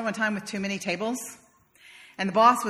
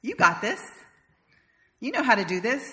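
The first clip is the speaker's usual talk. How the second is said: encouraging; 4 semitones higher than usual. Shown as a demonstration. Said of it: "you can say things like".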